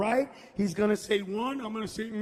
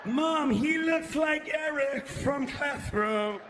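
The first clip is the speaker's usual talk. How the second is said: mock kid voice; 4 semitones higher, slower than usual. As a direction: gush like a thrilled kid. Voicing disabled kid, teasing.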